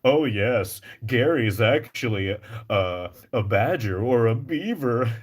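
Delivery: obvious sarcasm ending in a laugh; exaggerated, knowing sarcastic delivery; California sarcasm. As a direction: make it plain you're kidding. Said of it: "when people say something sarcastic".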